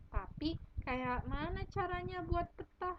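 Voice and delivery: put-on character asks how to make a map, light Batak accent. Reader voices story dialogue with a touch of Batak accent. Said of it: "anak Batak".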